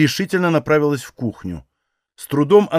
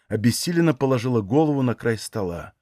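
ordinary delivery

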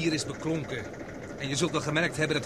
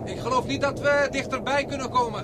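higher, louder call over the roar; raised voice; 7 semitones higher, 4 dB louder than usual. Acted. Explorer calling to companion near the roaring column, raised voice. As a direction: make yourself heard over the gas column.

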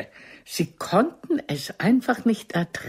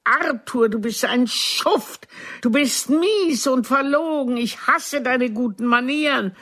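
mildly raised, higher mock shout; retold shout; 4 semitones higher than usual. Woman replays throwing her lover out, a mild mock shout. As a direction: hurl the accusations, half-acted. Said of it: "Ich rufe".

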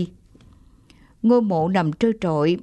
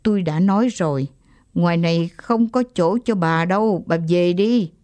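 stern, gritted. Acted. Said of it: "gằn giọng".

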